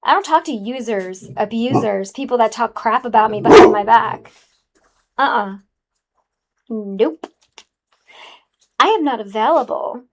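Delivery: sassy and dismissive. Acted. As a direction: brush them off with sass. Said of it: "God, I'm so sassy".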